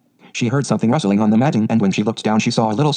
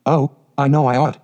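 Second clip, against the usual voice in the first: distressed cry; 4 semitones higher than usual. A narrator's reading. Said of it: "she cried".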